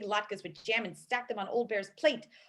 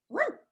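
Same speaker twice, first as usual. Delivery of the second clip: bear growl; 12 semitones higher than usual. Acted. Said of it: "said the bear".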